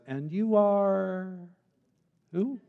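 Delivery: slow, drawn-out pointed question; firm challenge. Retold or imitated. God firmly challenges Job's standing, slow and pointed. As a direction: let each word land, firm. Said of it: "God's firm and clarifying response".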